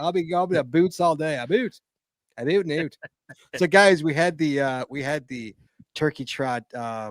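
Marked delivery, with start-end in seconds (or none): 0.0-3.0 Canadian accent, Canadian vowels on about and out. Riffing on a word, doing a Canadian accent. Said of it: "I love the Canadian accent".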